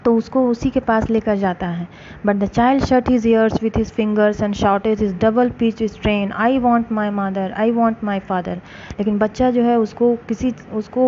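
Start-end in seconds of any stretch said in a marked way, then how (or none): 2.3-8.6 slow, careful read-aloud for a class; story narration. A narrator's reading. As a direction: read each phrase slowly for students. Slow English story reading.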